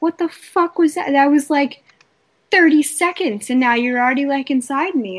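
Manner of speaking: a mock-indignant squawk of betrayal; exasperated woman complaining to her lover; mock outrage. Her reaction to quick sex.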